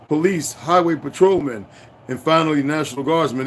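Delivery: steady news-report reading; newspaper read aloud. Acted. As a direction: read the old article out like a report. Reads newspaper article aloud.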